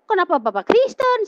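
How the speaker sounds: acted astonished question; puzzled questioning. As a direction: ask it with the pitch jumping right up. Acts out her puzzled question.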